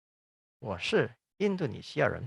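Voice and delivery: 我是印度尼西亚人 spoken slowly and evenly in Mandarin; slow Mandarin demo. Shown as a demonstration. Teacher to Indonesian students, modelling 我是印度尼西亚人 slowly.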